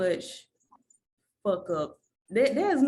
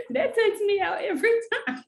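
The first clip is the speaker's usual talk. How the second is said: high, loud words through real laughter; laughing till near tears; laughing hard; 12 semitones higher, 4 dB louder than usual. Real, not acted. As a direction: crack up while saying it. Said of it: "I'm sorry".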